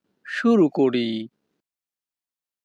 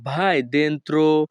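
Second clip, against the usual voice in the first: slow, careful teacher pronunciation; very slow, deliberate Italian; slow Italian model phrase; much slower than usual. Shown as a demonstration. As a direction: lay out each syllable slowly for the learner. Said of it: "Italian ভাষা".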